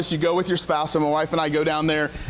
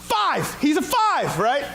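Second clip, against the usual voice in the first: pitched way up, quick retold outburst; mock yell; 10 semitones higher, much slower than usual. Wife answers the evaluator without missing a beat, high mock yell. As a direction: blurt it out high, imitating an eager yell.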